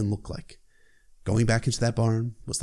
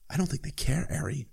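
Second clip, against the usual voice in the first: whispered; 4 semitones higher, 6 dB quieter than usual. Retold or imitated. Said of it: "Gendry whispered back".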